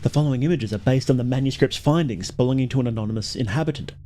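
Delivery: brisk, bright presenter read; YouTuber voice. Acted. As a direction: read it like a video host. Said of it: "Let's get my YouTuber voice on".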